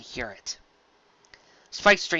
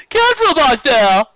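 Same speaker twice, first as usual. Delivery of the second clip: high, loud called warning; much higher, louder shout; calling out; 13 semitones higher, 11 dB louder than usual. Acted. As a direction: call it back over the water. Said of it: "Steven called out".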